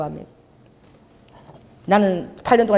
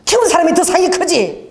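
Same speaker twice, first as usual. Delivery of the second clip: mother-in-law answering; 6 semitones higher than usual. Retold or imitated. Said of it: "근데 우리 어머니가".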